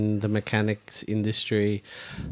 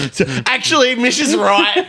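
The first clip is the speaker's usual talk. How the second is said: laughing; 5 dB louder than usual. Real, not acted. Laughing reversal.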